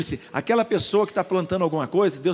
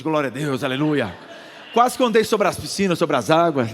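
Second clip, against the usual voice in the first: joyful praise; 3 semitones lower, 5 dB louder than usual. Retold or imitated. Pastor rejoicing over million offer.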